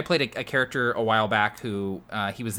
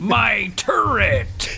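put-on loud, high, drawn-out accented yell; hammed-up Scandinavian character shout; Torbjorn; 11 semitones higher, 6 dB louder, much slower than usual. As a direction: wail it slowly like an outraged game dwarf. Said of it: "everyone can do a Torbjorn accent".

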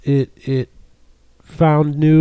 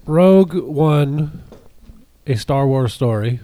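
slow, grand title announcement; slow title read. Shown as a demonstration. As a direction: read the title slowly like a trailer. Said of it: "Tyler, what'd you think of Rogue One?".

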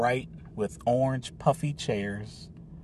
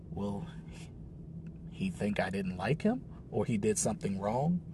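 put-on soft, faltering worried child; girl fearing the rabbit feels unloved; tearful; 3 semitones lower, 6 dB quieter than usual. A narrator's reading. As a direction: fight back tears.

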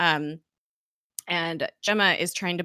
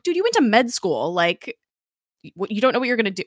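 louder, higher retold protest; mock incredulous; 5 semitones higher, 7 dB louder, faster than usual. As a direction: imitate an exasperated friend's disbelief. Friend confronts aimless Lincoln, retold.

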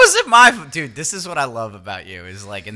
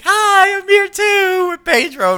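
put-on much higher, slow, sing-song girly greeting; imitating Raven's cheery hello, much higher; mock girly Raven; 9 dB louder, slower than usual. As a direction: chirp it like an overly sweet girlfriend. Girlfriend voiced in retold story.

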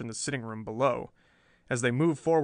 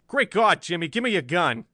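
much higher, louder panicked cry; frenzied yell; 5 semitones higher, 5 dB louder than usual. Acted. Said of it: "Bland's frenzied yell".

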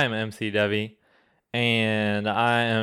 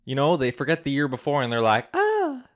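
light put-on Southern accent, ranting; a hint of a Southern accent for a mock rant; 2 semitones higher than usual. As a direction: play a Southern conspiracy ranter in a mild Southern accent. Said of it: "talking in a Southern accent".

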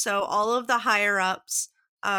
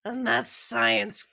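slow deadpan voice; much slower than usual. Pretend. Mock slow trainer voice.

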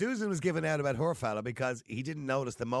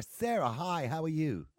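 lightly raised mock-posh hello; put-on posh accent; 3 semitones higher, slower than usual. Shown as a demonstration. Radio host showing he can talk posh, in a mock posh accent. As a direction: greet her in a playful posh accent. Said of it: "Do you want me to put on a posh accent?".

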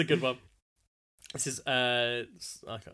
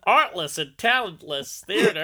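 put-on slow, questioning Australian accent; attempted Australian accent; 3 semitones higher, 4 dB louder, slower than usual. Repeating a Melbourne reader's comment in a shaky-attempt Australian accent. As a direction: attempt Australian, stretching the words out. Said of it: "your Australian accent's making me laugh".

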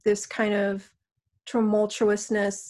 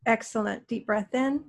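guided meditation. Acted. Guides a healing session.

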